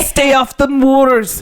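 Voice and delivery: slow, hammed-up Scottish warning; Scottish accent. Villagers warning strangers off the moors, mock Scottish accent. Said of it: "That is a Scottish accent".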